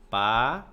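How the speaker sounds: "Paraguai" broken into PA, RA, GUAI, loud; syllable by syllable. Shown as a demonstration. Teacher writing out Paraguai for the class, syllable by syllable. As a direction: say "Paraguai" in separate syllables with pauses between. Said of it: "Vou botar Paraguai".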